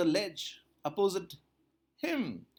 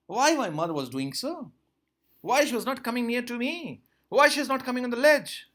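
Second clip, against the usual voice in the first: higher and louder, a hungry chick pleading; puzzled young seagull; 8 semitones higher, 6 dB louder than usual. Acted. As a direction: ask it like a baffled baby bird calling its mother. Teacher voices puzzled hungry chick.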